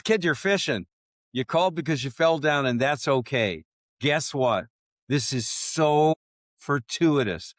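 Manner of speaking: excited pitch. Retold or imitated. Retold boss pitches new job.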